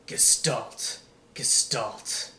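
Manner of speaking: low whisper calling from the dark; a voice calls Gestalt in the dark, whispered low; distant calling voice. Acted. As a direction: call his name from far away, breathless. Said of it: "A familiar and masculine voice called to him".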